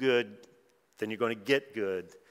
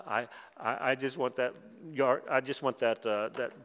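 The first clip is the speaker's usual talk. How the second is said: a mild mock whimper, like a sulking child begging for a toy; whiny crying baby. Preacher imitating sulking King Ahab, lightly whiny and babyish. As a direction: whine it like a spoiled king who can't have his way. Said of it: "And he's crying about it, being real baby about it".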